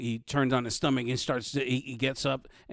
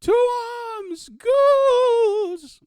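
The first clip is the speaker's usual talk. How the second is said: high, drawn-out call to arms; screamed alarm; 11 dB louder, much slower than usual. Acted. Fleeing guard calls people from homes, screaming. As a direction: scream it across the town.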